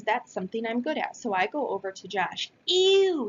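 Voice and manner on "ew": put-on high, loud kid's yell of disgust. A narrator's reading. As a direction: yell it like a grossed-out boy. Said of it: "he yells".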